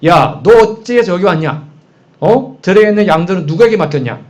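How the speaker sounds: mild mock outburst at a little brother; acted angry scolding. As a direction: lay into him like an annoyed eldest brother, rising at the end. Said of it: "동생한테 지금 화를 막 내고 있는 거예요".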